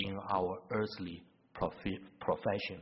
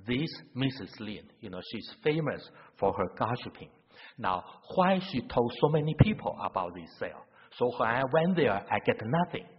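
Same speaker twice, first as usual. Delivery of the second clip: louder, indignant grumble that builds to a near-shout; huffy retelling of her annoyance; upset complaint; 2 semitones higher, 5 dB louder than usual. Retold or imitated. A neighbour's indignant complaint about Missus Lin, voiced louder and upset. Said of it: "the other lady was very upset".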